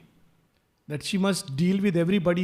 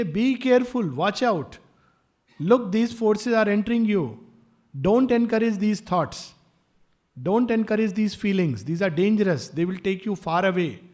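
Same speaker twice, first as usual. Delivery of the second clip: earnest, slightly raised cautioning voice; urgent warning; 2 semitones higher, 4 dB louder than usual. Retold or imitated. Teacher cautioning disciples about hostile forces, urgent warning. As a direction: warn them firmly of the danger.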